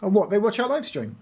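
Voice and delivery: rising in pitch, caught off guard; surprised. Real, not acted. Surprised that the kids watch their stream.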